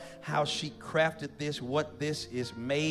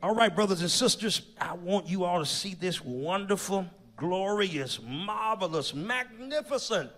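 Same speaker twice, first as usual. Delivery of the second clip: grand build-up. Real, not acted. Host builds up the unveiling.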